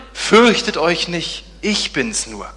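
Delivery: slow, calm reassurance; reassuring Jesus. Acted. Jesus calls to the frightened disciples, slow and calm. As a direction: soothe the frightened men.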